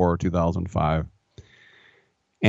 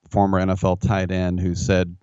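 ordinary talk

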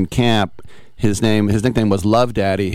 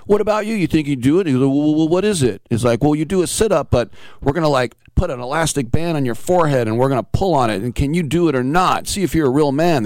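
goading jocks; 6 semitones higher than usual. Retold or imitated. Linemen goading the next guy.

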